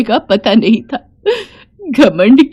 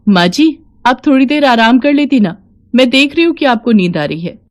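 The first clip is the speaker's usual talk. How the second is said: lightly voiced concerned young wife; caring daughter-in-law; 4 semitones higher than usual. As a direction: gently urge a tired elder to rest. Daughter-in-law gently urges rest.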